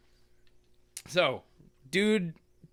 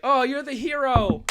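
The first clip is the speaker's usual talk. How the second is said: high, loud hero acclaim; mock awe; 10 semitones higher, 6 dB louder than usual. Onlookers discovering the hero, mock awe. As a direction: proclaim it in hammed-up wonder. Crowd hails the chosen hero.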